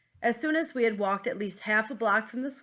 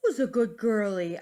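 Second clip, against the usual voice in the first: lightly voiced dad talking to the dog; a louder, mildly playful dad voice; 5 dB louder than usual. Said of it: "in my dad voice".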